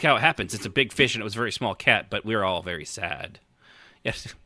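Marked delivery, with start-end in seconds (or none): none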